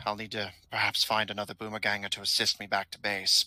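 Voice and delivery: lightly voiced loyal minion, matter-of-fact; a hint of a courteous servant of a villain; polite henchman. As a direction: play an injured underling, formal and composed. Game master voices wounded henchman.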